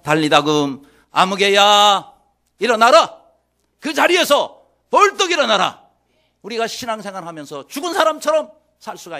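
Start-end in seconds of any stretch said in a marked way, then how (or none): 0.0-5.8 commanding voice of the Lord. Acted. The Lord calling each believer by name, rousing shout. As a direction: build to an urgent rousing shout. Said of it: "주님 말씀하시잖아요".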